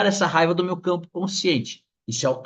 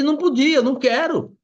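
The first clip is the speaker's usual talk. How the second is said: high, loud burst of refusal; inner protest; 10 semitones higher, 5 dB louder than usual. Acted. Customer inwardly refusing the extra grams, exasperated protest. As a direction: pitch leaps up in acted frustration.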